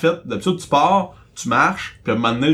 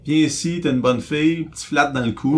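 coaxing the dog. Retold or imitated. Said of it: "toutes les stratégies ont été essayées".

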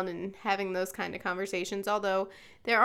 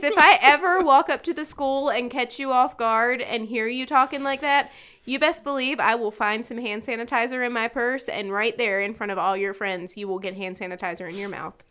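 stern mom warning; 6 dB louder than usual. Retold or imitated. Mom threatening her kids about hand sanitizer, loud mock stern. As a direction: warn them half-joking, half-serious. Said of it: "I tell my kids".

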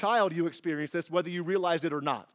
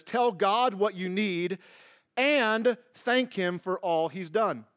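reading the verse slowly; slower than usual. Shown as a demonstration. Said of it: "six B says this".

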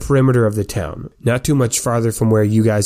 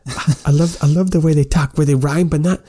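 beaming excitement; 5 semitones higher than usual. Acted. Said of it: "Sympathy is just beaming".

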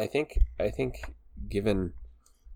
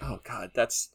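mock teary gush; 5 semitones higher than usual. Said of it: "I'm getting emotional thinking about that scene".

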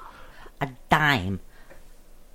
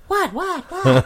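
flustered what; 7 semitones higher, slower than usual. Retold or imitated. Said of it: "She says".

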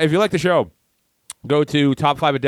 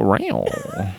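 playful monster roar; 3 semitones lower than usual. Pretend. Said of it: "best monster".

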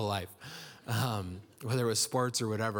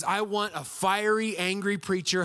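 mock demand; 6 semitones higher, 3 dB louder than usual. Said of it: "what they really mean is".

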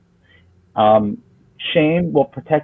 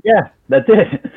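slow, much higher mock client voice; a hammed-up client saying yes; client agreeing; 8 semitones higher, slower than usual. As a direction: play the client, drawn out and high. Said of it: "They're like".

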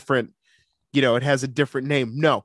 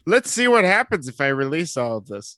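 mock Zuckerberg. Voicing Zuckerberg releasing data.

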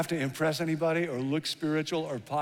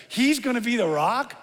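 incredulous; 6 semitones higher, 3 dB louder than usual. Acted. Incredulous about Peter.

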